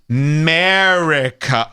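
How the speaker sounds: America drawn out as a slow, mocking MURR-ica; America as slow, cringey MURR-ica; mocked hashtag slang. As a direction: stretch America slowly, swallowing the first vowel. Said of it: "To call America".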